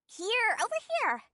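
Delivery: high call to attract them from hiding. Acted. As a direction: beckon them over from a distance. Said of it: "the one who was calling out to us".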